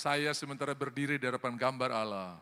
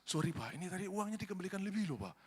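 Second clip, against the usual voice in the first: hushed, courteous customer voice; polite soft confession; 3 semitones higher, 6 dB quieter than usual. Acted. Honest customer telling merchant about extra change, polite soft confession. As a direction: speak up softly and apologetically.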